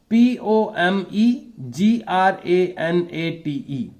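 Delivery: every letter of P O M E जी R A N A T E spelled out slowly in one run; slow spelling. Shown as a demonstration. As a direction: spell P O M E जी R A N A T E letter by letter at half speed, no breaks. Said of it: "three parts में भी बोल सकते हैं". (धीरे-धीरे पूरी spelling एक साथ)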